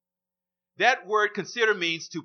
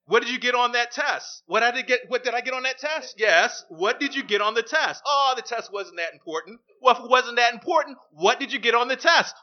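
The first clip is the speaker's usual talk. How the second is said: louder, higher back-and-forth; acted grilling; 3 semitones higher, 4 dB louder than usual. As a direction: keep pressing and dodging. Parent grills child about test.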